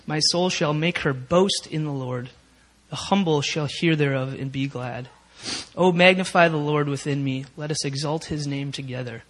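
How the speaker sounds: measured psalm reading to the congregation; scripture reading. Acted. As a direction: read the psalm out with reverence. Reads Psalm 34 aloud.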